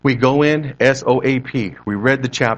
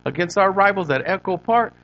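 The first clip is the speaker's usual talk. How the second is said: higher, lighter East L.A. homeboy voice; pitched-up East L.A. street storyteller; East L.A. accent; 7 semitones higher than usual. Retold or imitated. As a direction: imitate an East L.A. homeboy excitedly recalling a fight. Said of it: "He goes".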